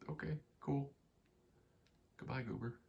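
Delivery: high-pitched goodbye to a pet; pet send-off. Real, not acted. Sends off the pet.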